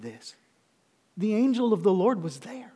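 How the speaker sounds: hushed, breath-only reverence; awed whisper. Real, not acted. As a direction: whisper it as a revelation. Awed climax of sermon.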